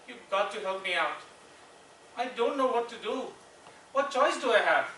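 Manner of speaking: acted helpless appeal; desperate plea. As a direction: plead with your wife, pitch climbing. Retold plea to his wife.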